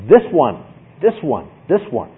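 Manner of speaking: THIS stressed in each "this one"; single out each one with a punched "this"; emphatic pointing. Shown as a demonstration. Preacher showing how Paul singles them out, stressing "this". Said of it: "He's emphatic".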